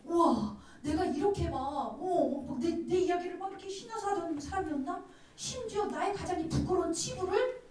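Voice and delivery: high, excited wondering voice; astonished at herself. Retold or imitated. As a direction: act out a woman amazed by her own boldness. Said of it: "본인도 놀랐을 거야". (스스로 놀란 여인처럼 높고 들뜨게)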